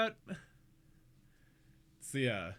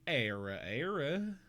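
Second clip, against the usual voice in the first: "Ara Ara" slowed into southern "air-uh air-uh"; southern "Ara Ara", drawn out; southern accent; slower than usual. Shown as a demonstration. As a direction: say "Ara Ara" with flat southern R, no tongue roll. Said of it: "if you do it in a southern accent".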